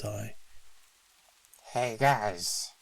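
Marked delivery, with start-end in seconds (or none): 1.7-2.7 put-on slurred drunk call; tipsy elf calling out; drunk slurring. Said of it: "in a slurred voice".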